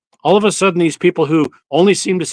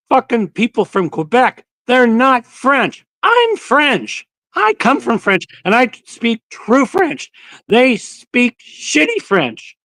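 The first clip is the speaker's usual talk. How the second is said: pitched-up, slow indignant rant as the Frenchman; angry Frenchman; 7 semitones higher, slower than usual. Retold or imitated. Mimicking the angry Frenchman at customs, slow high rant. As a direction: sneer at Quebec like a proud Frenchman. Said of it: "He goes".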